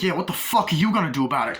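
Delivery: loud, high, quick taunt; cocky challenge. Retold or imitated. Thug taunting the man over his briefcase, cocky challenge.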